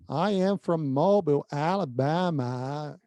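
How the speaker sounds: slow, drawn-out Southern US drawl; Southern twang. Retold or imitated. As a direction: imitate an Alabama local, stretching the vowels way out. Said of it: "é o Southern twang". (sotaque sulista arrastado do Alabama)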